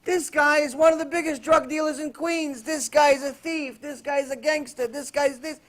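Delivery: a tough inmate scolding a newcomer in disbelief; exasperated gangster. Retold or imitated. Gangster berating the Wall Street man.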